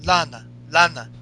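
put-on lightly Russian-accented pleading; mock-begging in a light Russian accent; Rusev pleading. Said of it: "he's like".

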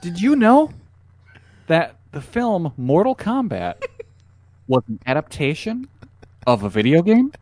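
high, laughing mock YouTuber; clickbait video narrator. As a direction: ham it up like a clickbait host.

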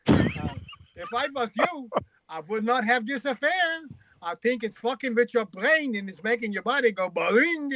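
high, hammed-up Jewish accent. Freud advising his troubled friend, in a comic Jewish accent. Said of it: "with a Jewish accent".

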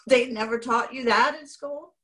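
mock-astonished parent questioning a teenager; incredulous. Mother learning her son can't mail a letter, incredulous. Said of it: "that was like".

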